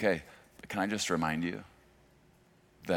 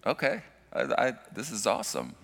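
higher voiced, playful gush to his wife; mock excited gush; 5 semitones higher than usual. Pastor imitating himself praising his wife, mock excited. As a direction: replay his impressed reaction to wife, lightly. Afterwards I was like.

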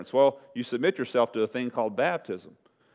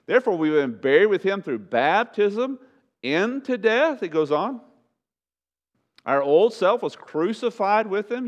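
high, raised preacher's reading; emphatic scripture reading; 8 semitones higher, 4 dB louder than usual. Real, not acted. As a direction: declaim the verse from the pulpit. Declaims scripture to congregation.

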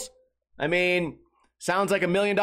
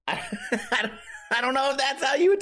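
laughing; 9 semitones higher than usual. Real, not acted. Laughing at own kid voice.

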